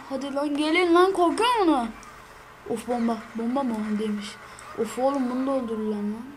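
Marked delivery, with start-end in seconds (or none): 0.1-1.9 tag only. Real, not acted. Taunting enemies.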